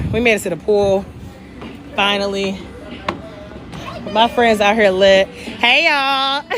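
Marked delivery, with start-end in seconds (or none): 4.1-6.4 loud hype. Real, not acted. Calling out to friends.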